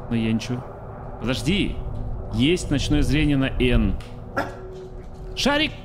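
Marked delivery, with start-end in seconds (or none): 2.3-4.0 loud, slow excited announcement. Real, not acted. Excited discovery while scared. 5.4-5.7 high loud call to a dog. Real, not acted. Calling the dog loudly.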